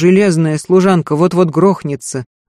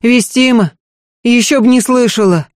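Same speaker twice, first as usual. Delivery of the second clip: higher, louder, tearful servant; a maid sobbing, higher and louder; 6 semitones higher, 4 dB louder than usual. Acted. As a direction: blurt it out through sobs. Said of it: "всхлипнула Марфа".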